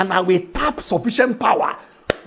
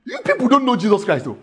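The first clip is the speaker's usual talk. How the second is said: impassioned sermon delivery; preacher driving home the point to the church; preaching; 2 semitones higher than usual. Acted. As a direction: preach it to the crowd with fire. Preaching to congregation.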